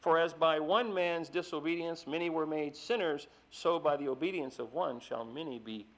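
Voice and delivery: preacher reading Romans aloud with force; scripture reading. Acted. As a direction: proclaim the verses to the congregation.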